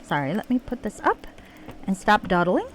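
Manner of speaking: put-on Southern US accent; terrible Southern accent. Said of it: "We'll try this terrible Southern accent".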